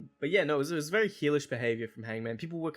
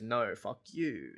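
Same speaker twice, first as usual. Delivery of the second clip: mock heel brush-off; 2 semitones lower, much slower than usual. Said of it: "the heel that normally goes".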